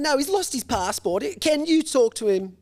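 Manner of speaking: dad handing over phone. Retold or imitated. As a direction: pass the phone over, a touch exasperated. Parent voiced in story.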